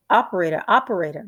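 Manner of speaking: husband yelling into a dead phone; shouting into the phone. Acted. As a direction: shout for the operator. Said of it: "shouted into the telephone".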